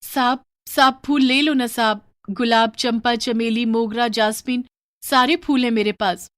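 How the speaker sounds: put-on a poor girl coaxing a passerby to buy flowers; street flower girl. Flower girl begging a gentleman to buy, pleading.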